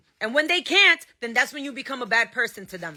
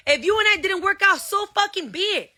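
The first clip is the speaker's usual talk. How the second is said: heated, exasperated dismissal; angry outburst; 6 semitones higher than usual. Real, not acted. Mother yelling at her ex in an angry outburst. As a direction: pitch jumps higher as the anger spills over. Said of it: "I'm sorry that I'm angry".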